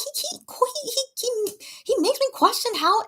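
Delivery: high, slowed giggly stutter; half-laughing fan stammer; giggling stammer. Real, not acted. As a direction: laugh through the stumbling words.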